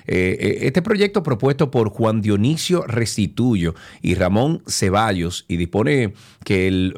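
steady radio newscast delivery, stressed key words stretched; formal, emphatic news reading. Acted. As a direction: read the bill report as a radio newscaster. Radio host reads political news.

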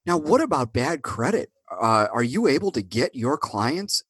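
put-on hammy radio ad in a Buffalo accent. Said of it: "That's my worst Buffalo accent".

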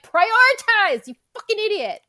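yelling. Retold or imitated. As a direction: yell it at the dumb character. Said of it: "I'm like".

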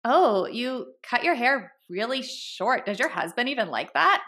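slow, pointed faux-innocent question; mock snark. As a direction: play the snarky acquaintance, dragging out the dig. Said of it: "Jenna's gonna say something snarky about me".

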